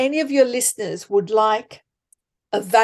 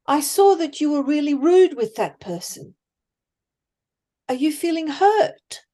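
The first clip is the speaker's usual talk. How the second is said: lightly raised, gently curious asking; curious question; 5 semitones higher than usual. Shown as a demonstration. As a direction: sound genuinely interested, not probing. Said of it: "Ask questions".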